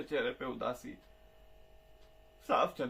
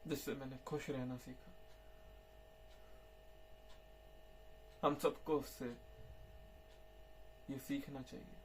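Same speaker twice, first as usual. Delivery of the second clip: softly, at a much lower level; quiet reflection; 3 semitones lower, 14 dB quieter than usual. Acted. Storyteller closing on what the child taught him, hushed. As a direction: let the lesson settle softly, with long pauses.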